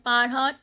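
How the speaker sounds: "parents" as "par-hon", nasal ending; silent T and S. Shown as a demonstration. Teacher sounding out French, "parents" with silent T and S. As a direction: end "parents" on a nasal vowel, no T or S. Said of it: "T and S both are not pronounced".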